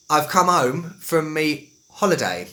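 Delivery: Estuary English, "home" without H, "holiday" with it; slow Estuary mix of dropped and sounded H; mixed Estuary accent. Shown as a demonstration. Teacher giving a sample sentence, mixed Estuary accent. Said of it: "a mix in the same sentence".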